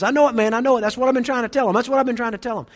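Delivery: retold excited interjection; insistent dude. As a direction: pile in emphatically, repeating yourself. Dude chimes back in, retold.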